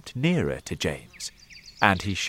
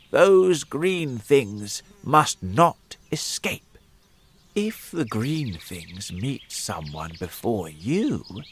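urgent command. Acted. Old man urges, warns.

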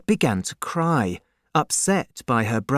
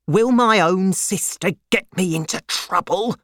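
higher-pitched, indignant question, not really whispered; angry; 6 semitones higher than usual. A narrator's reading. Solomon rebukes his own sister, mildly angry. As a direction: demand it with a touch of anger. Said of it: "whispered Solomon angrily".

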